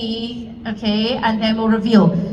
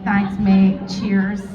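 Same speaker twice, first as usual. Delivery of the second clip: lower, casual British thanks; British accent; 5 semitones lower, much slower than usual. Real, not acted. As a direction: slip briefly into a British accent. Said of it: "I became British for a second".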